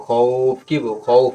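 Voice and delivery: "খৌফ" with the glide held long; one-alif stretch. Shown as a demonstration. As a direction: draw out the middle of "খৌফ". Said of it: "এক লিফ টানবো". ("খৌফ" এক আলিফ টেনে)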